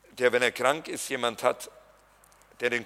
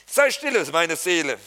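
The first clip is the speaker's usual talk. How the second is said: proclaimed loudly; 2 semitones higher, 5 dB louder than usual. Acted. Preacher proclaims psalm verse.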